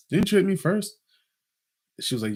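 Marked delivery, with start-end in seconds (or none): 0.1-1.0 mock innocent question. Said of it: "I'm like".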